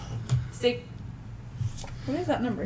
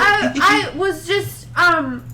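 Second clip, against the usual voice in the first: clumsy fake French accent, slow and awkward; bad French accent; 2 semitones lower, slower than usual. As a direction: flirt in a terrible French accent. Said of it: "You have a really bad French accent".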